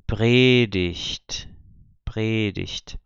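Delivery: predigt ending in -icht, said distinctly; predigt, model pronunciation with -igt as -icht; ch sound for G. Shown as a demonstration. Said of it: "continua com a pronúncia do C H".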